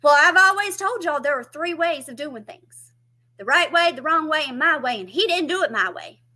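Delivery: high, loud bossy mother; mama laying down the law. Retold or imitated. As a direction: lecture like a stubborn old mama. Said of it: "She said".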